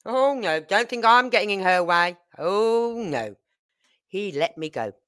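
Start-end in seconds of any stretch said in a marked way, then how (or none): 0.1-3.4 meek husband. Retold or imitated. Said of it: "my husband just backed off".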